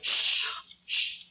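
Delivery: unvoiced shushing; urgent hushing. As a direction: hiss for silence. Hushing wife at night.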